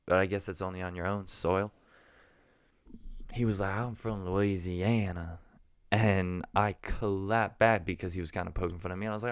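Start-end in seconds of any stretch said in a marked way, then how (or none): 3.7-5.4 Southern gentleman. Retold or imitated. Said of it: "there was this Southern gentleman there".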